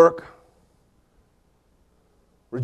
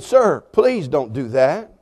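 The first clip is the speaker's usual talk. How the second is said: slow, measured, courteous plea; polite restrained request; 3 semitones lower, 4 dB quieter, much slower than usual. Retold or imitated. Pastor politely asking a man with his dog to stop, slow restrained request. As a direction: hold it in and ask politely, drawn out. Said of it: "That's exactly how I said it".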